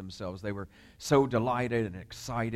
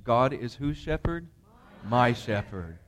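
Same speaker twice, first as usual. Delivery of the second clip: pushed call and response; louder call; 3 dB louder than usual. Shown as a demonstration. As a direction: demand a fuller answer from the room. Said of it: "I'm not convinced".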